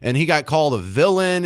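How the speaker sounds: usual speaking voice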